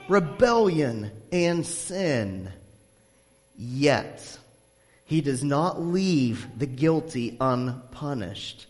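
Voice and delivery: slow, weighty reading of the text; solemn scripture reading. Acted. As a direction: let each attribute land slowly.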